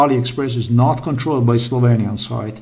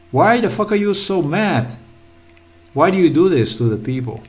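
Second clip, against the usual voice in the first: exasperated outburst; 6 semitones higher than usual. Real, not acted. Ranting at sellers on screen.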